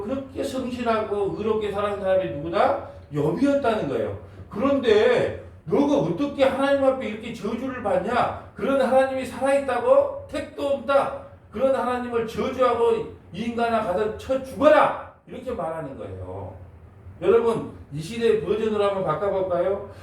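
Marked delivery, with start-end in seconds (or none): 4.5-15.1 higher, scornful taunting of a suffering husband; scornful wife. Acted. Job's wife mocking her husband, a scornful high taunt.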